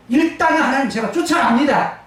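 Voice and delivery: half-acted plea to God, rising with a laugh; lightly voiced David begging for his family; David pleading. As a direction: speak as David pressing God to let him go. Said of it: "히브리 원문에서는".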